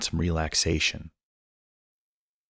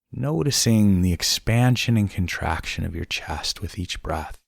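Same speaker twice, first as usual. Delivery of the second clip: unhurried meditation voice with long pauses; guided meditation. Acted. Host guiding listeners through breaths and body scan, calm guided meditation.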